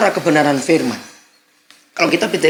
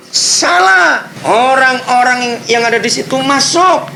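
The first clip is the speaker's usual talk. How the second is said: loud, high preaching at full force; fiery preaching; 9 semitones higher, 4 dB louder, slower than usual. Acted. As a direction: preach it out to the congregation. (berkhotbah dengan suara keras dan berapi-api)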